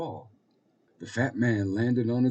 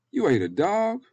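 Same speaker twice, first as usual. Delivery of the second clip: high, loud startled question; shocked little girl; 13 semitones higher, 8 dB louder than usual. Acted. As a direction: squeal it like an alarmed girl. Little girl shocked by fat man.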